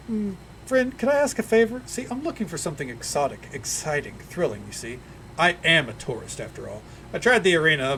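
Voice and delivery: halfling tourist asking favor. Acted. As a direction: sweet-talk for a favor. GM holds halfling voice.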